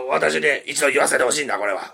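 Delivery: a hint of a forceful old politician; lightly voiced commanding stump speech; Tanaka Kakuei speech. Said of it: "田中角栄のイメージやね".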